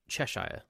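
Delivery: Cheshire with the ending said like "shyer"; American pronunciation. Shown as a demonstration. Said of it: "what you tend to do in America".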